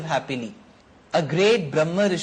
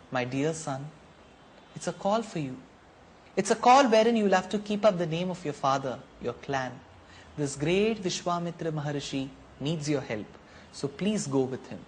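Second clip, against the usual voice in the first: softer, gentle fatherly words; tender father; 4 dB quieter than usual. Acted. Dasharath kisses his son's forehead and tenderly sends him off, softer. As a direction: speak softly, from the heart.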